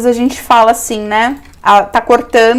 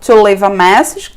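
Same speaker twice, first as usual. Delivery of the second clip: slow model phrase; slower than usual. Shown as a demonstration. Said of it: "Can I take a message".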